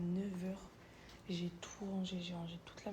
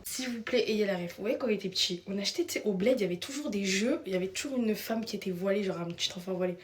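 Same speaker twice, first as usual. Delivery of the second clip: excited loud; 8 dB louder than usual. Real, not acted. Excited shouting storytime.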